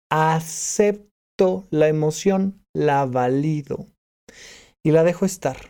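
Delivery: slow, settled, and accepting; calm acceptance. Shown as a demonstration. Showing a listener how to accept sadness, calm and slow. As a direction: let each phrase land slowly.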